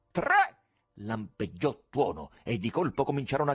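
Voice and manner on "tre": very high, loud cry; magician's countdown; shouted count. A narrator's reading. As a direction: call the count to the hall. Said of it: "Gridò".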